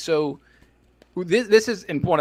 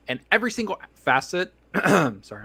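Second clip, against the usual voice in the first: choking on a drink; coughing mid-sentence, throat caught; 4 semitones higher than usual. Real, not acted. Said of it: "I'm choking now".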